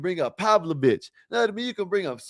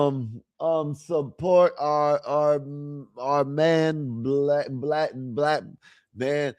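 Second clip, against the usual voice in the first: slow, stumbling reading with repeated words; halting slow reading; 3 dB quieter, much slower than usual. Shown as a demonstration. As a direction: read haltingly, stuck on each word. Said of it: "I used to read just like this".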